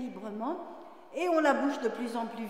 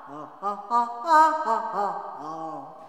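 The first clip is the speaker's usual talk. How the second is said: head voice; 5 semitones lower, 6 dB louder, slower than usual. Shown as a demonstration. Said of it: "monter un tout petit peu plus avec la voix de tête".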